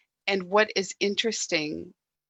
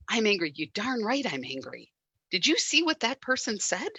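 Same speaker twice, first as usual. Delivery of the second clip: indignant inner voice; 3 semitones higher than usual. Retold or imitated. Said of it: "now it becomes solid".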